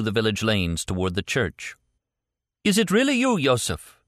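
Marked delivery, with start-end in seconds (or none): 2.6-4.0 high, loud demanding cry; demanding priest. Acted. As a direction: demand it loudly in disbelief. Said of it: "the priest demanded".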